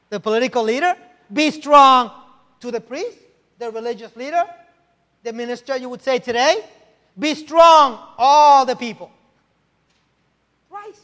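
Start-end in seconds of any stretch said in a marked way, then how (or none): 1.3-2.1 "strong" punched loud; loud emphatic "Be strong". Shown as a demonstration. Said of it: "It's being emphatic". 7.2-9.1 loud, slightly higher "Be strong, all the people"; rally the crowd; loud emphatic call to all the people. Shown as a demonstration. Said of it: "It's being emphatic".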